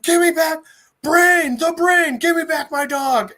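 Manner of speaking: high, insistent calling out; hammed-up, high-pitched confrontation; mock heroic demand. Hero demands his dog back.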